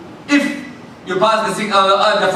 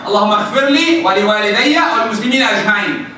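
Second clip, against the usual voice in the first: 1 recited dua; much faster than usual. Shown as a demonstration.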